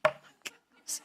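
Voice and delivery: whispered, soft mock despair; exasperated aside. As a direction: breathe it out in exasperation. Exasperated at tearful co-host.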